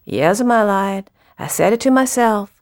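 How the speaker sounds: measured, lilting poetry recital; poem reading. Acted. Poet closing a poem for the audience, measured recital. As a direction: read the verse line by line with feeling.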